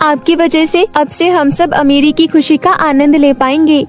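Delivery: put-on a hurt little girl telling her dad about school; young daughter. Daughter thanks the fairy.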